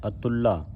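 ਅਤੁੱਲਾ with a long doubled l, "a-TUL-la"; tight pronunciation. Shown as a demonstration. Teacher shows it must be said tight, geminated ਅਤੁੱਲਾ. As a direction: press into the "ll" of ਅਤੁੱਲਾ, then fall. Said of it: "ਇਹ ਕੱਸ ਕੇ ਬੋਲਣਾ ਹੈ".

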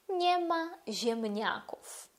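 slow Polish ziemniaków, ziemniaków in Polish sounds; Polish model. Shown as a demonstration. Teacher demonstrating Polish to the class. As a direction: stretch it out like a model phrase. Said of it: "акцент на граматичний рід".

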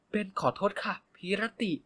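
cutesy apology. Acted. Ben apologizes to the big guy in a cutesy high voice. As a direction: sweeten the voice to apologize. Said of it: "จะทำเสียงสองเอ่ยขอโทษ".

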